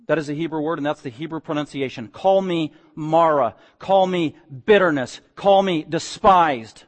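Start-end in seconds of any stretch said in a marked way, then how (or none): 2.1-6.8 slow, heavy, bitter; weighty, mournful renaming; bitter Naomi. Acted. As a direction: drag each word out in bitterness.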